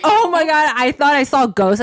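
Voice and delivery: squealing through laughter; high laughing "oh my God"; laughing shriek. Retold or imitated. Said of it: "I'm like".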